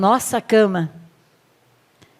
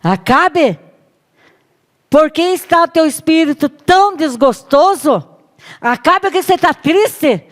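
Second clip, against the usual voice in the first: higher, louder concerned wife calling Acabe; wife's concerned voice; 6 semitones higher, 5 dB louder than usual. Acted. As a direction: coax her sulking husband. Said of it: "e disse a Acabe".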